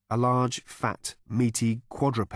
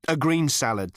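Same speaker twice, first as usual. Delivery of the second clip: firm, higher, a bit louder; emphatic; 5 semitones higher, 4 dB louder than usual. A narrator's reading. Arthur insisting to the cow, firm and emphatic. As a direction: plant the order firmly. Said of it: "said Arthur emphatically".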